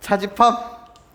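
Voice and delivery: slow dictation-style reading; slow careful reading. Shown as a demonstration. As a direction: read each word out slowly. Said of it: "이렇게 읽어야 돼요".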